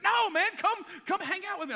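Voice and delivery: high and loud, eagerly insisting; eager invitation. Retold or imitated. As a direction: pull him in like an excited friend. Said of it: "And he's like".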